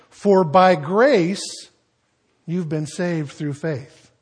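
slow, weighty scripture reading; slow solemn reading. Shown as a demonstration. Preacher reading Ephesians to the congregation, slow and solemn. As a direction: read the verse slowly, letting it land. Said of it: "By grace, because of God's grace".

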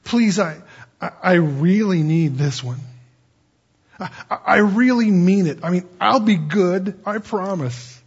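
halting, insistent plea; mock begging. Man bargaining with the Lord, mock pleading. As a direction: beg and bargain, tailing off on the promise. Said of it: "you don't have to beg the Lord".

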